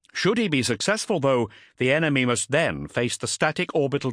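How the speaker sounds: a hint of formal briefing; Ultramarine captain addressing council. Voices Cestus briefing the council.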